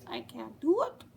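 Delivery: badly faked Australian accent; attempted Australian accent. Shown as a demonstration. Trying her favourite accent and failing, botched Australian accent. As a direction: have a shaky go at Australian vowels. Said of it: "My favorite accent is the Australian accent".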